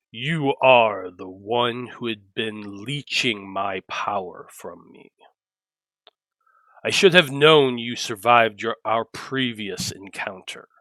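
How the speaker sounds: very deep, rumbling bass voice. A man in a suit stands, laughs, and addresses you: very deep rumbling voice. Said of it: "he says in this very deep and rumbling voice".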